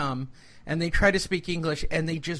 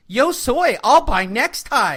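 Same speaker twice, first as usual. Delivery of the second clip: put-on woman's voice, high and loud; 5 semitones higher, 7 dB louder than usual. Retelling how a commercial ends, done in a put-on white voice. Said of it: "I'll do it in my best white voice".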